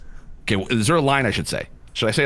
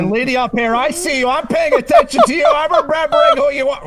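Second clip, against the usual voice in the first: mock robot voice; 13 semitones higher, 5 dB louder than usual. Jokey voice under the helmet.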